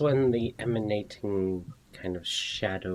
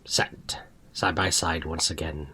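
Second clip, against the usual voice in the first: whisper; 4 dB louder than usual. Acted. GM narrates in whisper.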